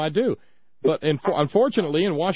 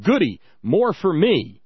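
dad hollering; 2 semitones higher, 6 dB louder, slower than usual. Retold or imitated. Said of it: "my dad would holler from the living room".

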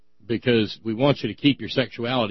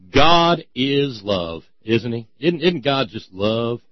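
sarcastic; 3 dB louder, much slower than usual. Acted. Sarcastic rhetorical question.

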